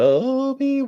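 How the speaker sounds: lilting sing-song voice. Retelling a scene where the Inquisitor calls out, sing-song voice. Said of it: "in a nice sing-song voice".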